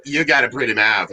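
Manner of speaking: put-on Southern accent. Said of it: "Oh, it's pronounced".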